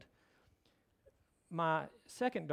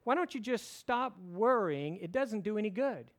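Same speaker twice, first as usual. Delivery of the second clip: exasperated; 3 semitones higher than usual. Retold or imitated. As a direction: imitate a husband mildly fed up with worrying. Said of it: "he got exasperated".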